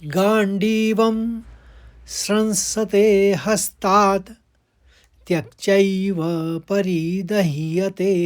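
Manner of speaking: careful Sanskrit chanting; slow verse recitation. Shown as a demonstration. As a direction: chant the two quarters slowly and clearly. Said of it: "आप पहला और दूसरा चरण को देखते हैं". (श्लोक का धीमा पाठ)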